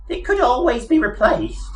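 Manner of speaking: high mouse voice, calmly reasonable. Acted. Mouse calmly offers to replace Arthur's brain, reasonable piping voice. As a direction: sound perfectly sensible about it. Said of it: "said Benji reasonably".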